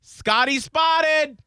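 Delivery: high, slow singsong tease; gleeful. Retold or imitated. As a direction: savor the gossip. Reading fan comment gleefully.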